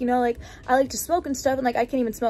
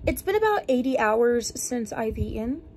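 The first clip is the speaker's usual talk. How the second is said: feeling sick. Real, not acted. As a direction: talk like you feel awful and drained. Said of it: "I feel really sick".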